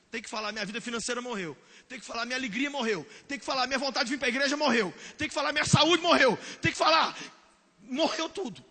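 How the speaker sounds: rising to a loud cry; building litany. Real, not acted. (ladainha crescendo até o grito)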